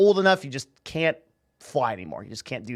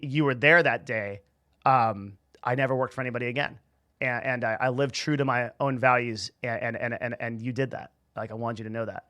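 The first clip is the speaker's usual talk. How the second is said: quiet, lower, halting sincerity; heartfelt thanks; 3 semitones lower, 4 dB quieter than usual. Retold or imitated. Grandchild thanking grandmother near the end of her life, quiet and sincere. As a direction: thank them softly and haltingly, meaning it.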